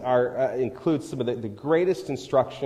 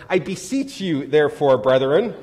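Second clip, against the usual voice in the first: southern preacher voice; 5 dB louder than usual. Shown as a demonstration. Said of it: "I love saying that to junior and high school students".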